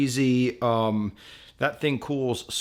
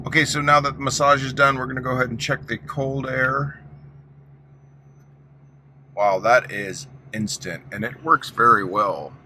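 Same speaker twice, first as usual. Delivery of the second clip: shouting over engine; 3 semitones higher, 4 dB louder than usual. Real, not acted. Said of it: "hopefully you can hear me over the engine".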